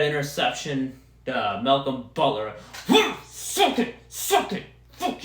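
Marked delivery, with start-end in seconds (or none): 3.2-5.2 taunting. Real, not acted. Taunting after interception.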